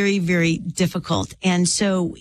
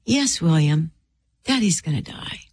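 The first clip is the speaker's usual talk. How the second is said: gently retold father's answer; a touch of tenderness, unhurried pauses; precious, tender voice; 3 semitones lower than usual. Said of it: "in the most precious voice".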